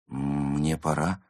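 slow, hesitant timid murmur. Acted. Cat cautiously trying to leave the actress, timid. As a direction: venture it meekly. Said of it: "робко сказал он".

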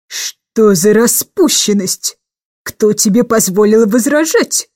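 a lightly voiced stern old lady, slow; booming bass. Aunt booms at Jane for talking back. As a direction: lightly boom the disapproval. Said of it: "пробасила мисс Эндрю".

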